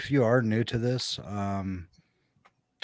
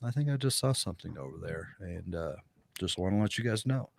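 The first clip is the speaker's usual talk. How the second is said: under the breath; 6 dB quieter than usual. Shown as a demonstration. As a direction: slip it in softly, as if nothing happened. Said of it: "just under your breath subtly say".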